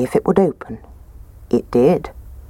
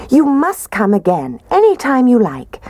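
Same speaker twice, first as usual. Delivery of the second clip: higher, louder, welcoming; friendly Mummy Bear; 9 semitones higher, 3 dB louder than usual. Acted. Mummy Bear inviting Goldilocks back, welcoming. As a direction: invite her kindly.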